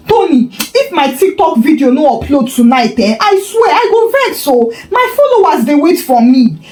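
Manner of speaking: sulky threat, half-giggling; whiny girlfriend. Acted. Sandra whining after power cut.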